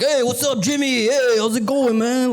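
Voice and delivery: high, breezy small-town big shot; cocky local hero hailing a buddy; hometown guy greeting. Pretend. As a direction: call out to everyone on the street like you own the town. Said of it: "He's like".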